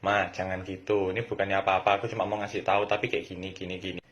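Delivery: put-on child calmly telling mom she is wrong; gentle. Shown as a demonstration. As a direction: speak softly and kindly to mom. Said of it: "Ngomongnya yang halus".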